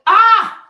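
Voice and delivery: high, loud cry of frustration; short frustrated outburst, pitched high; exasperated scream. Retold or imitated. Exasperated scream over ruined vision.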